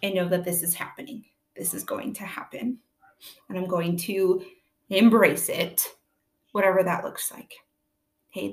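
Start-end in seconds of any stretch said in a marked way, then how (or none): 1.5-2.8 soft unvoiced whisper; whispered acceptance. Shown as a demonstration. Mom modelling acceptance to parents, soft whisper. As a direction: breathe it out as a quiet promise to yourself. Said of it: "that's another visual for you guys".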